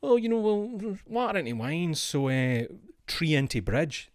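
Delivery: high, casual mock Jesus voice; hammed-up offhand Jesus. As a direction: toss it off like a lazy miracle worker. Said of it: "He didn't go".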